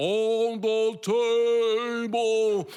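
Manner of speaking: slow deliberate call, "table" drawn out. Speaker retells how the whole room reacted, slowly.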